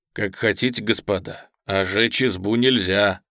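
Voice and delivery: understated, earnest plea; heartfelt. Acted. Merchant pleads against burning the hut, heartfelt. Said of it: "прочувствованно сказал Усольщиков".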